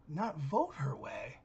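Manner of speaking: hushed aside. Real, not acted.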